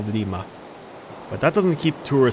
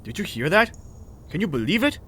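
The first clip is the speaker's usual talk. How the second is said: higher-pitched, indignant question; hateful; 8 semitones higher than usual. A narrator's reading. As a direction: ask in hateful disbelief, pitch raised. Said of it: "with hate in his voice".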